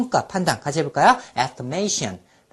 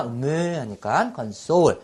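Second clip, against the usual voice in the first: slow immersive mnemonic; 3 semitones lower, much slower than usual. Shown as a demonstration. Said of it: "그런 상황에 몰입해야 돼요".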